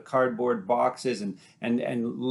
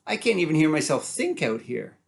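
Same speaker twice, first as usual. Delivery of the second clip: high, loud mocking disbelief; incredulous city brother; 4 semitones higher, 4 dB louder than usual. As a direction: scoff at his brother over the traffic. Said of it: "laughs at him and says".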